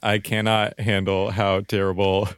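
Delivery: slow, laughing mock exasperation; amused retelling. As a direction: stretch it out through giggles. Retold friend's amused message.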